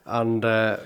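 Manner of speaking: hushed, secretive telling; whispering. Real, not acted. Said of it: "Why are you whispering?".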